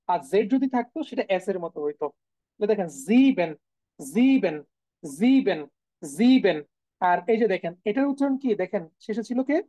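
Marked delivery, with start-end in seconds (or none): 3.1-6.6 "জিবেন" with voiced z, long ee, falling; German s as z. Shown as a demonstration. Teacher drills seven for students, "জিবেন" with initial z. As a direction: drill "জিবেন" singly, buzzing the z. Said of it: "সেভেনের যে উচ্চারণ সেটা হচ্ছে জিবেন".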